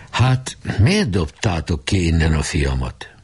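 slow, hushed demanding question; stern father. Acted. Geréb's father questioning the club, slow and grave. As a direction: ask it gravely and slowly.

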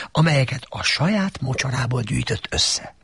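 ordinary delivery, nothing marked

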